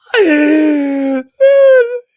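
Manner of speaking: loud high burst of laughter; howling laugh; big laugh. Real, not acted. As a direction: crack up hard at the clip. Laughing at clip.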